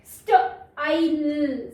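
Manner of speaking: स्टाइल drawn out very slowly, long आई held; very slow demo. Shown as a demonstration. Teacher modelling the long vowel for kids, very slow. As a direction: sound out स्टाइल slowly for beginners. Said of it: "आई का long sound".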